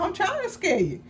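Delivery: high-pitched, amused villain quote; laughing mock menace. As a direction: tease through a laugh, voice lifted. Acting out him teasing, laughing.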